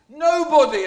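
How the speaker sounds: huge, very high and loud cry; agonised bellow. Acted. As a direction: howl it in pain. Blinded Polyphemus bellows.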